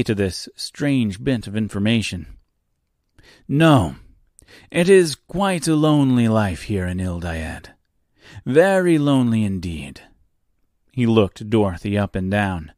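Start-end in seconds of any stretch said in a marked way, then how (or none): 3.5-10.0 self-pitying host. Acted. Reginald complaining to Dorothy about his lonely life, hammed self-pity.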